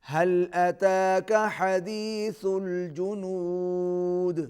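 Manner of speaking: slow, measured tajweed chant; teacher modelling a recitation; Quran recitation. Shown as a demonstration. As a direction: recite it slowly for the pupil to copy. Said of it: "teacher models verse".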